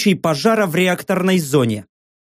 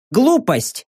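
high metallic outburst; clanging emotional voice; 4 semitones higher than usual. A narrator's reading. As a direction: snap it out like a machine. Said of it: "эмоционально лязгнула система".

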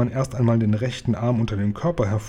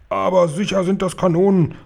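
loud, higher booming protest; 7 semitones higher, 4 dB louder than usual. A narrator's reading. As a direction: boom it out like a stubborn officer. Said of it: "böllerte der Oberkommandierende". (laut polternd)

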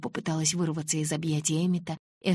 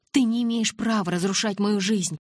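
louder, higher furious cry; helpless fury; 5 semitones higher, 5 dB louder than usual. A narrator's reading. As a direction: shake with helpless rage. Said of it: "В бессильной злобе тряслась я". (крик в бессильной злобе)

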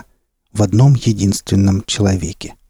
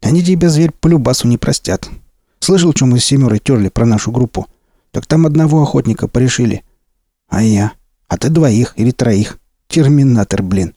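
lively bandit; 2 semitones higher than usual. Acted. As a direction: rattle it off, worked up. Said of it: "Бандит оживился".

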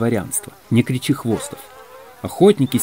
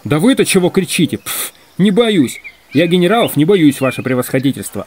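indignant, pitched-up comeback; defiant retort; 6 semitones higher, 4 dB louder than usual. Acted. Hunter squabbling with a general, indignant and defiant. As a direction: answer back in a raised, quarrelsome voice.

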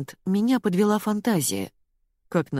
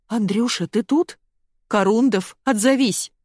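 high, loud call from a distance; 5 semitones higher, 3 dB louder than usual. A narrator's reading. Women at the door call for Андрей, loud. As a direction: call out across the house.

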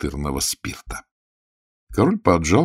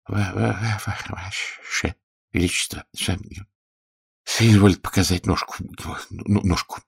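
frightened stammer. Acted. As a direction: stammer out the words, shrinking. Terrified healer stammering.

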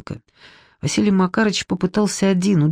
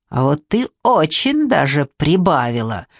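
vengeful shout; 3 semitones lower than usual. Acted. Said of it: "мстительно выкрикнул Иннокентий".

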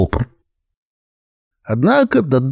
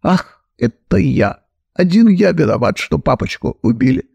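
sobbing; 6 semitones higher than usual. Acted. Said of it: "И всхлипнул".

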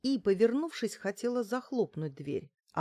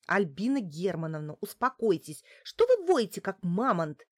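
exasperated scolding; 5 dB louder than usual. Acted. Client calming the roaring giantess, exasperated. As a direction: scold loudly and sharply.

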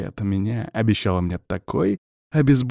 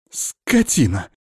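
slow, unsure insult; hesitant yelp; 2 semitones higher, slower than usual. Acted. Witch steps back after slapping him, hesitant insult. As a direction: insult him without full conviction. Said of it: "вякнула она неуверенно".

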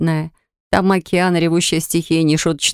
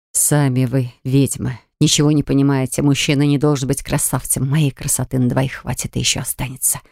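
lower, offended viper hiss; 4 semitones lower than usual. Acted. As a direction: hiss back like a hurt snake. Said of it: "зашипела гадюка, обиженная Мурена".

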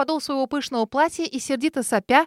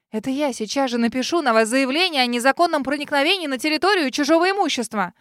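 higher and louder, indignant; angry retort; 4 semitones higher, 4 dB louder than usual. Acted. Girl rebuts the lady's theft accusation, angry. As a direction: fire back at the accusation.

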